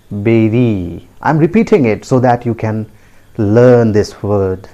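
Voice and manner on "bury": "beri" as BEH-ree, falling; correct pronunciation. Shown as a demonstration. Teacher having learners repeat, "beri" as BEH-ree. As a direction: say "beri" with an eh vowel. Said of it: "pronounced as".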